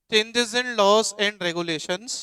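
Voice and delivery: slow, spaced dictation. Shown as a demonstration. Teacher repeating the topic name to students, slowly. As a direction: spell the heading out slowly. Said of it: "हम पढ़ रहे हैं".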